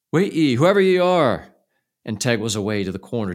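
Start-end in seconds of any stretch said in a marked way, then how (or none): 0.1-1.5 much louder and higher shout. A narrator's reading. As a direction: call out to the singer outside. Teg shouts after singer.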